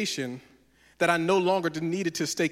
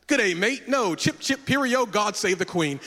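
put-on London accent, pitched up; 3 semitones higher than usual. Tourist fakes being local to a helpful stranger, London accent. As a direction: try blending in with a hammy London accent. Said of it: "talking with a London accent".

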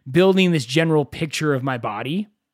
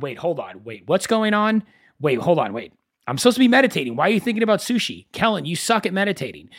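mock self-scolding; faster than usual. Scolding himself for wandering mind.

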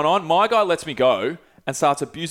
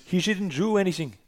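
higher-pitched put-on Portuguese accent; 5 semitones higher, 4 dB quieter than usual. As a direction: protest in an amateur Portuguese accent. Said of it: "That was my Portuguese accent".

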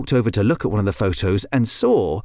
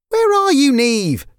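high, raised call; 13 semitones higher, 4 dB louder than usual. Acted. Lyra calls to her sister inside the coop, calling out. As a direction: call out for someone out of sight.

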